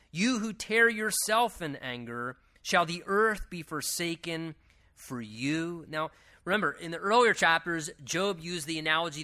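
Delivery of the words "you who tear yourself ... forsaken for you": higher, measured Bible reading; declaimed scripture, pitched up. Acted. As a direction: read the verse out deliberately. Reads scripture aloud to the congregation.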